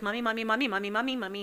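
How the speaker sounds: rapid-fire repeated calling, lightly acted; imitated urgent child. Imitating her son calling out urgently.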